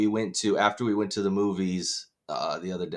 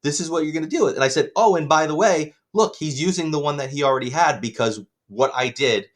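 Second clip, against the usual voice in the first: heated rant; 5 semitones higher, 3 dB louder than usual. Retold or imitated. Ranting at mother retold.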